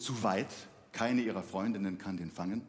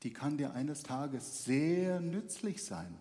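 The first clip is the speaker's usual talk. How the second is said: slow solemn bird voice; 3 semitones higher, 3 dB quieter, slower than usual. Acted. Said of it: "sagt der Vogel".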